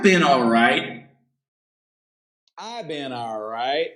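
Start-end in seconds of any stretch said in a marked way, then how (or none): 2.6-3.9 softly. Shown as a demonstration. Teacher drilling a greeting reply, said softly. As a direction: say it again much softer. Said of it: "teacher drills the reply".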